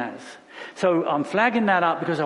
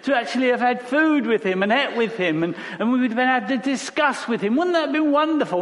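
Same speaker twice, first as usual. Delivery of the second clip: lightly voiced dreamy believer, higher and fast; wistful imitation; 5 semitones higher than usual. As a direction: mimic a longing churchgoer, half-smiling. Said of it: "when people say".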